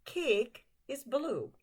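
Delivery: slow, clear Cake is blue; slow teaching pace. Shown as a demonstration. Teacher slowly modeling a sentence for students. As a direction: spell it out for learners. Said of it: "you know this word as well".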